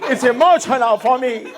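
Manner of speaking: protesting in a hammed-up Latina accent; wife's Latina accent. Latina wife telling husband to stop mocking, accented protest. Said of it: "my accent".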